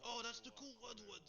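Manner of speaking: light up at spotting a favorite; excited recognition. Real, not acted. Fan spotting his favorite character, excited.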